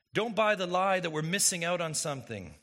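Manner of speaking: ordinary delivery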